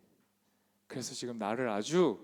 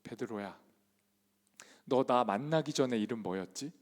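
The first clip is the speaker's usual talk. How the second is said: gentle Jesus; 4 semitones lower than usual. Acted. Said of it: "정반대로 묻는 거예요".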